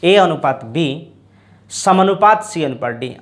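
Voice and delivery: "ए अनुपात बी" read slowly, each word spelled out for the class; slow reading demo. Shown as a demonstration. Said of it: "ऐसे इसको पढ़ेंगे". (धीरे-धीरे पढ़कर दिखाना)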